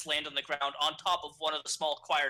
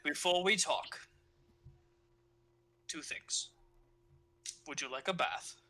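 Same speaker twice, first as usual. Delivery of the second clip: slow priest voice; slower than usual. Acted. Father Anderson speaks, slow, measured.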